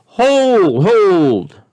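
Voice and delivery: roared. Acted. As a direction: roar to cut him off. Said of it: "roared Humdrum".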